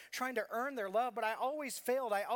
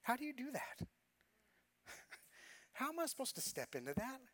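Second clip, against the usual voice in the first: softer, higher question with a laugh in it; laughing disbelief; 5 semitones higher, 6 dB quieter than usual. Real, not acted. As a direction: laugh at how impossible it seemed. Laughing disbelief at his situation.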